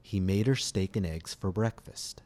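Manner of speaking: relaxed natural reduction of and and her; reduced forms, model sentence. Shown as a demonstration. Teacher models the sentence for students to repeat, natural reductions. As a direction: steak and eggs said as steak 'n eggs, her as 'er. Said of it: "Listen and repeat the following sentence".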